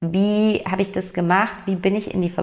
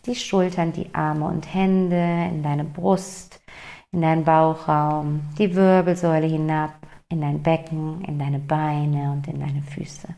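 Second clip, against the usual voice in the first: guided body scan. Acted. Guiding the listener through a morning body scan, calm and slowing.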